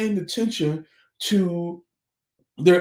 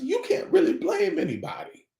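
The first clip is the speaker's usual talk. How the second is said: preaching shout; 11 semitones higher than usual. Real, not acted. Preacher shouting at parents in the congregation. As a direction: cry it out to the congregation.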